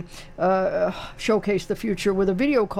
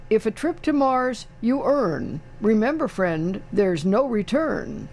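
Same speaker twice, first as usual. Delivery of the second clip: rhyming slogan read-out; 3 semitones higher than usual. Retold or imitated. Radio host reading the company's rhyming reply, slogan recital. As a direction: recite the rhyme, slowing to the punchline.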